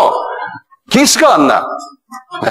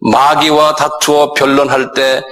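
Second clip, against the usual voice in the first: slow, measured reading of the verse; slow formal scripture recitation; slower than usual. Shown as a demonstration. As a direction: read the Bible verse deliberately. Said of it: "그 구절을 그대로 읽으면".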